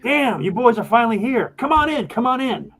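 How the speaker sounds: high-pitched, badly faked Irish leprechaun; hearty high welcome in a shaky Irish accent; attempted Irish accent. Leprechaun ushering the players in, attempted Irish accent. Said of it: "says it with an Irish".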